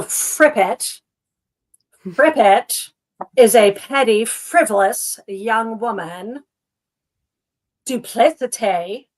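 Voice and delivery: badly faked affected accent, words drawn out; half-managed attempt at a ridiculous theatrical accent; Moira Rose accent. Reading out a character's odd words in a badly imitated affected accent. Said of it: "I'm not doing her accent even slightly properly".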